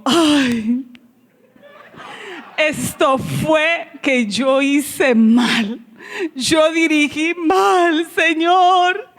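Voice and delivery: slow, tearful lament to the Lord with a catch of crying; tearful self-blame. Retold or imitated. Alone, fearing she led badly, tearfully lamenting to the Lord. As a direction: let the voice crack as if about to cry.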